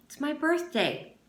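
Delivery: high mocking whine; childish whine. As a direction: stamp it like a brat. Zigzag taunting, birthday claim.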